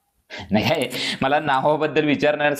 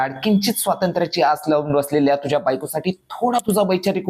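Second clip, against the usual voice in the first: impassioned retort; 3 semitones higher than usual. Acted. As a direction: demand change, with growing fire. Impassioned reply to the mockers.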